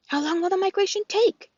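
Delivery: gosling voice. Acted. The gosling asks.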